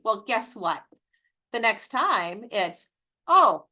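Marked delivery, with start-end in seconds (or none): 3.3-3.7 higher, louder imitated "oh" of discovery; mock toddler realization. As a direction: act out a child catching on. Toddler realizing nagging gets candy.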